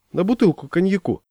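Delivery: name the stake, fired up; азарт. A narrator's reading. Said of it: "загорелся я". (с азартом)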